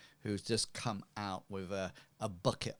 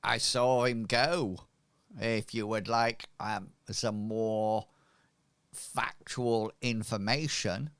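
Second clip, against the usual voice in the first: lightly voiced, slightly raised local woman; hint that there is more to tell; robust street woman; 2 semitones higher, 5 dB louder than usual. Cleaner offering visitors information, lightly hammed-up hinting. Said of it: "She says, she says".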